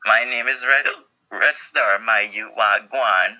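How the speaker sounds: choppy broken robot voice; glitching robot. Acted. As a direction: stutter like a malfunctioning robot. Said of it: "Sound like a broken robot".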